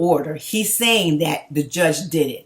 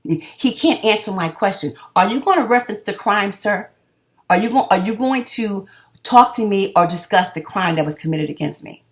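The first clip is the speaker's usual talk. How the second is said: angry; 4 semitones higher, 4 dB louder than usual. Real, not acted. Pressing an official on the phone.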